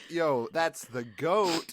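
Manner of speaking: slow, stretched would-be cool; self-mocking cool pose; acting hip. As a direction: play it hip and cool, drawing it out. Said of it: "I was acting all, like, hip and cool".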